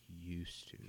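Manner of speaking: low, quiet, flat echo; deadpan. Retold or imitated. Redhead reacts dryly to grandson who used to be ginger, quiet deadpan. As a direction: mutter it dryly, unimpressed. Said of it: "I was like".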